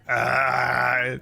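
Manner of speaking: loud drawn-out "ah"; mock group groan. Game master voices three players stuck behind Tooth, mock groan. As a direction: imitate worn-down companions with one long cry. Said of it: "the three of you are just like".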